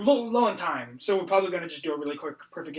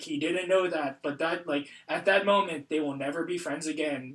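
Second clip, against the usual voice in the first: dramatic narrator monologue; 4 semitones lower, 4 dB quieter than usual. Retold or imitated. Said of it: "it does a little monologue".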